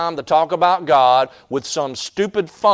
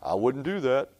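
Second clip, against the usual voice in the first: bee warning; 5 dB quieter than usual. Retold or imitated. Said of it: "bee repeats".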